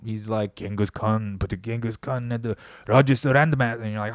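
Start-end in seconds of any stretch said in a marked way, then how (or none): 0.6-3.6 put-on light Asian dad accent, a bit louder; a touch of Asian dad accent bossing his kid; mock Asian dad accent. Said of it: "my dad doesn't actually talk like that".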